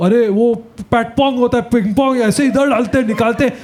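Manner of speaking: shameless uncle. Retold or imitated. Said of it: "You know those shameless uncles all".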